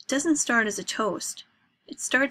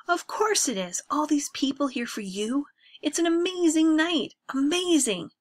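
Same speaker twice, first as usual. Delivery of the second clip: higher, louder, mocking praise; bitter sarcasm; 7 semitones higher, 4 dB louder than usual. Drunk older brother mocks the family party, sarcastic. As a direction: sneer at the whole party.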